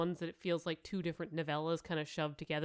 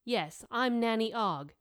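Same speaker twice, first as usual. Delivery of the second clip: darkly; 2 semitones higher, 3 dB louder, slower than usual. Acted. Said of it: "she added darkly".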